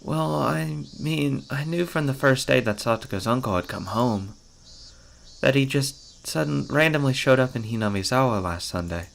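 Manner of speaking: lightly voiced girl, explaining haltingly; hesitant Mion.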